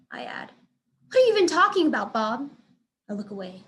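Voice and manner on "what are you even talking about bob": fast, high, louder disbelief; can't believe what she hears; incredulous. A narrator's reading. Boss reacts in disbelief.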